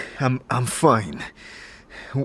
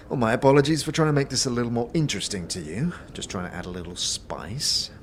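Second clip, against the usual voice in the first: very fast huffy apology; offended innkeeper; 3 semitones higher, faster than usual. Acted. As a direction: sulk through the apology.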